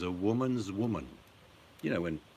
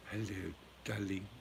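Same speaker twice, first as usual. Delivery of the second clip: Zsa Zsa Gabor; 6 dB quieter than usual. Retold or imitated. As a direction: purr like a Hungarian film siren. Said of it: "Have you got one of Zsa Zsa Gabor?".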